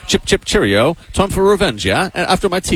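put-on jokey posh British accent; mock British accent. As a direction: play a cartoon Englishman promising revenge over tea. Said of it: "If he grew up in English, he'd".

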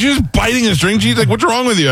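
very high-pitched mock indignation; appalled sister. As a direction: imitate a sister scolding in disbelief. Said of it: "She goes".

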